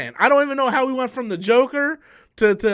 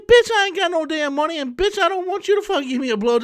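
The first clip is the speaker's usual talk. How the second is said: retold angry yell; 8 semitones higher, faster than usual. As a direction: brush her off, shouting higher. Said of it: "I'm like".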